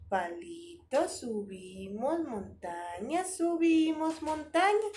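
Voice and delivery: slow, drawn-out stroke words for the letter M; slow tracing count. Shown as a demonstration. Teacher guiding kids through writing M, slow and drawn out. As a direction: pace each stroke word out as if tracing it. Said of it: "el trazo de la M es".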